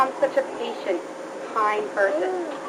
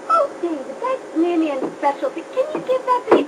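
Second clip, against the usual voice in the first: kind voice; 2 semitones higher, 4 dB quieter than usual. Retold or imitated. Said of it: "Mom in a very kind voice say".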